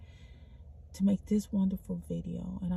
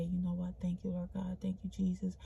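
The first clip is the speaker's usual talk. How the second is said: quiet thanks; 8 dB quieter than usual. Retold or imitated. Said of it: "I say".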